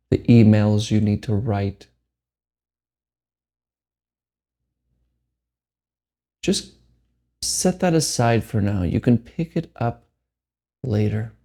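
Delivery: measured meditation guide with long pauses; unhurried phrases, each left to settle; guided meditation. Acted. Meditation teacher guides listeners to let go, guided meditation.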